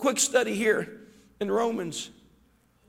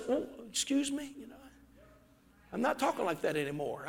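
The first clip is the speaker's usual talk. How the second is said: mock prim convert; 11 dB quieter, faster than usual. Convert voicing new polite self.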